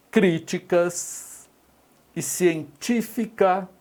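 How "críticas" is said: críticas stretched out syllable by syllable; slow, drawn-out example word. Shown as a demonstration. Teacher reading críticas out slowly for the class. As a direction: draw out críticas slowly so students hear each syllable. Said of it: "teacher reads example word slowly".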